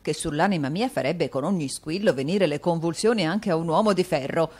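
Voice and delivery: a vain fop fuming theatrically; foppish Mantalini. Acted. Dandy Mantalini cursing at the door bell, exasperated.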